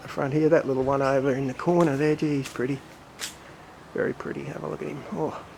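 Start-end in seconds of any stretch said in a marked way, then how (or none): 2.1-5.4 soft admiring. Real, not acted. Admiring little azalea softly.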